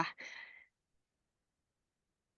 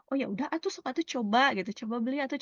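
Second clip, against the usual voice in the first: higher, put-on voice, pushing them to buy; acted urging seller; 5 semitones higher, faster than usual. Telling a customer to go buy it, cheerful urging.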